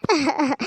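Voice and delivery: short pulsing sobs; acted sobbing. Wife sobbing at husband's return from jail. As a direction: sob in quick bursts. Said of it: "ಯಾಕ್ ಕಣ್ಣೀರ್ ಹಾಕ್ತೀಯ?".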